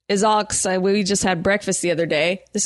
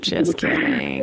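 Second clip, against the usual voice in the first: deep joke voice; slower than usual. Acted. Teasing after being humiliated.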